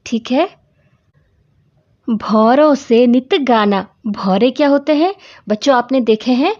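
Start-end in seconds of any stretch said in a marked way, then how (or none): 2.1-3.9 put-on slow, measured verse reading for children; unhurried classroom recitation of verse; poem recitation. Shown as a demonstration. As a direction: recite each phrase slowly and deliberately. Teacher recites the poem line.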